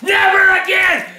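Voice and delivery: furious yelling rant; angry shouting. Acted. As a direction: bellow it in outrage. Furious rant at pasta brand.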